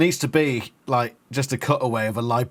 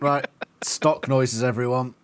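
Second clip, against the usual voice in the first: drawn-out announcement. Acted. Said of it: "repeated catchphrase".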